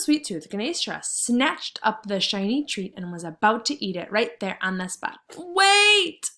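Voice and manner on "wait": high, loud squeak of a little mouse; squeaky mouse. Acted. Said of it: "squeaked Mister Mouse".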